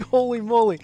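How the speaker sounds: loud, high holy moly; amazed. Retold or imitated. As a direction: blown away, exclaiming loudly. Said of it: "I was like".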